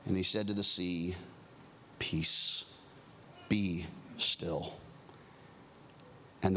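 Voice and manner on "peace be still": calm command. Acted. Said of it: "he rebuked the wind".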